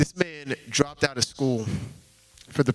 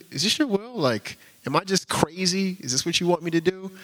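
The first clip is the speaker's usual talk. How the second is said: pleading prayer; 6 semitones higher than usual. Retold or imitated. Desperate prayer at the airport.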